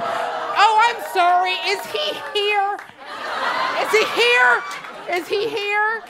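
mock-polite questioning. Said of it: "that part where".

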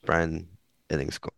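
Ellingskål ending in a rounded "skaw", no hard d; Danish pronunciation. Shown as a demonstration. Showing the host how Brian's Danish name goes, Danish pronunciation. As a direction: give Ellingskål its Danish vowel. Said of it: "His name is Danish".

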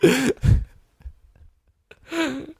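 breaking up while voicing the soldier; mock dying Southerner. Co-host laughing through his own Southerner-at-war bit. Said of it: "talking like a Southerner dying at war".

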